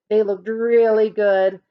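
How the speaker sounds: usual speaking voice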